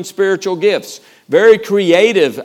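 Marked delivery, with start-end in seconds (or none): 1.3-2.4 slow dry sarcasm; deadpan, poking fun at himself; dry self-mocking. Real, not acted. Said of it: "really stretching this morning on the title".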